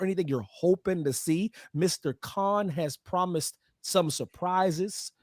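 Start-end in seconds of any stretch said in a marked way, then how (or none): 1.7-5.1 teasing slow tease. Real, not acted. Teasing show surprises.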